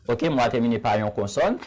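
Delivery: ordinary talk, nothing marked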